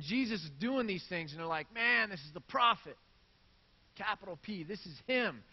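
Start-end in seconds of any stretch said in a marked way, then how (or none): 1.7-5.4 high, loud, thrilled exclamation; fired-up crowd. Retold or imitated. Crowd hails the prophet with loud excitement. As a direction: shout it like you finally found him. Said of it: "they get all fired up".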